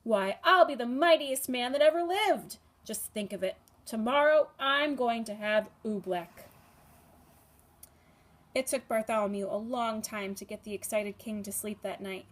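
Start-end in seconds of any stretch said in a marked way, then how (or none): 0.0-6.5 gleeful boast. Acted. King gloats over his oobleck.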